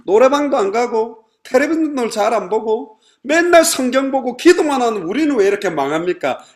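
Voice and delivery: loud, high-pitched plea of complaint; acted lament, pushed high and loud; aggrieved complaint. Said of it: "이런 하소연인 거예요".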